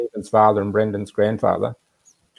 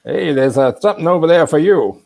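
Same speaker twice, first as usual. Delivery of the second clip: imitated Wisconsin accent, raised in pitch and volume; Alan's Wisconsin accent; 7 semitones higher, 6 dB louder than usual. Hard-of-hearing friend pointing out something left for him, loud Wisconsin accent. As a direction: call it out in a mock Wisconsin accent. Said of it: "Wisconsin accent, of course".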